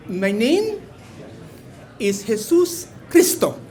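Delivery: put-on lightly done Latino accent on the name; thick Latino accent. Customer telling the barista his name, mild Latino accent. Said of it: "in the thickest Latino accent I can find".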